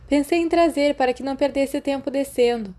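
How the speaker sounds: lightly voiced Sirius, offhand and kind; Sirius through the door. Sirius calling to Remus through the bathroom door, friendly. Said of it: "a voz de Sirius continuou".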